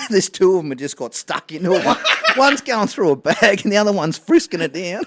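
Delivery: cracking up as he describes it; laughing. Real, not acted. Laughing while retelling prank.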